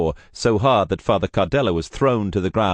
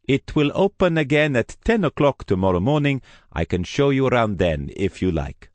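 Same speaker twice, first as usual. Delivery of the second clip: politely firm, higher priest voice; apologetic priest; 7 semitones higher than usual. Acted. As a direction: gently turn the visitor away.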